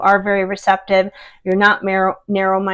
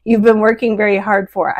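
laughing mid-sentence; a light laugh breaking through; kind gentle laugh. Real, not acted. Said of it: "I'm sorry. I'm not laughing at you guys".

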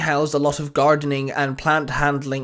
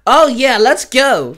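much higher, louder excited cheer; 9 semitones higher, 8 dB louder, slower than usual. A narrator's reading. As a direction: whoop with joy at the battle. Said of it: "the trainer cheered".

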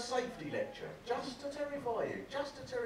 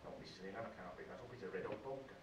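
a hint of the nervous teacher; 14 dB quieter than usual. PE teacher refusing to pick up the poker, a low mumbled hint. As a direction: lower and softer, backing out of it.

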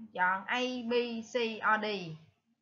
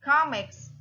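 comics stressed on COM; first-syllable stress; 3 semitones higher, 3 dB louder than usual. Shown as a demonstration. Teacher explains the answer, comics stressed on the first syllable. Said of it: "nó sẽ nhấn ở âm một".

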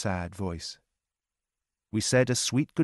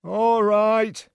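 gruff watchman; 12 semitones higher, 8 dB louder than usual. Acted. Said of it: "he said".

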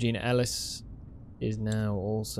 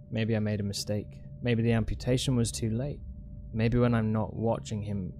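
faster, steady note reading; reading a note aloud; 4 semitones lower, much faster than usual. Acted. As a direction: read the diary note out, brisk. Reads the in-game note aloud.

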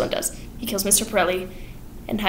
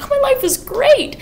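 much higher, dreamy sing-song; sing-song bliss. Retold or imitated. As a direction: float the line up high in bliss. Miss Levitt content, business booming.

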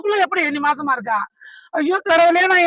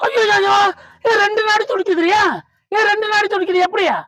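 alarmed, raised and higher cry of dismay; shocked cry; 4 semitones higher than usual. Acted. Husband alarmed at wife's pulse, shocked cry.

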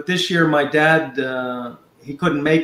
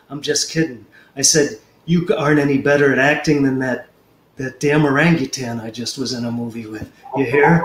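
Clint Eastwood impression. Prank caller pitching a movie, lightly voiced Clint Eastwood. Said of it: "I could really do that one good".

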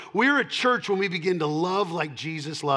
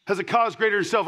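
quick, higher repeat of the point; fast emphatic repeat; 4 semitones higher, 4 dB louder, faster than usual. Real, not acted. Pastor pressing the point on the church, fast emphatic repeat. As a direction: rattle it off again to drive it home.

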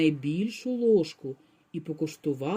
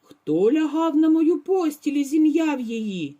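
louder, higher papa bear roar; frightening roar; 6 semitones higher, 6 dB louder than usual. A narrator's reading. Papa bear roars about his rumpled bed. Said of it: "заревів страшним голосом".

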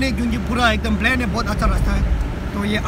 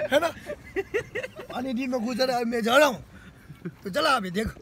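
soft, amused aside; quiet joking; 8 dB quieter than usual. Real, not acted. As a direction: murmur it playfully. Soft joking about foggy car. (धीमी मज़ाकिया आवाज़)

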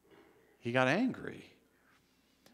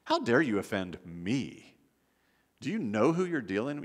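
mock-offended pride; indignant arrogance. Preacher mimicking how we act when offended, haughty indignation. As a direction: play at being personally affronted.

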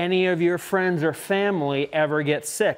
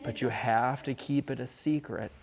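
softer, hushed secret-telling voice; secretive hush; 4 semitones lower, 8 dB quieter than usual. Acted. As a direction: lean in and let them in on a secret.

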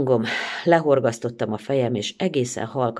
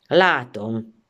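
mocking; 4 dB louder than usual. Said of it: "mondta gúnyosan".

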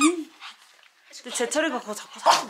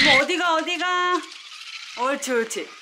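squeaky praising a dog; 5 semitones higher than usual. Real, not acted. Cooing at the pet dog.

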